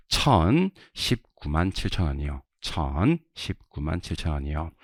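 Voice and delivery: slow, spaced-out repetition of a figure; slow drill reading. Shown as a demonstration. Teacher repeats the amount for students, slow drill reading. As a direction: draw out each part of the number, then repeat.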